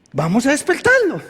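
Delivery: fuller, livelier quoted line; emphatic repeat. Retold or imitated. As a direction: repeat it out clearly, as a rallying call. Same quote repeated more emphatically.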